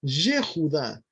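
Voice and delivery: Yehudá said slowly with a clear e; careful pronunciation. Shown as a demonstration. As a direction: model Yehudá slowly for students. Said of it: "Esa es la pronunciación". (Yehudá pronunciado despacio)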